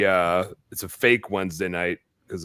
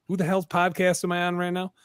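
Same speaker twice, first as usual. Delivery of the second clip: higher mock bewildered guest voice; confused guest; 8 semitones higher than usual. Host imagining the guest's confusion, mock bewildered and higher. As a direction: play the lost guest wondering where he is. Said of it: "Grant, you're gonna be like".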